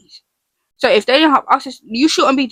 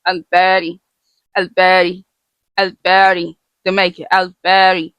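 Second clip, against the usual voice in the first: steady rote repetition, name then meaning; memorization drill. Shown as a demonstration. Teacher repeats the name to help everyone learn it, rote drill. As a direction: repeat it evenly like a study drill. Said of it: "We try to repeat it to help us learn it".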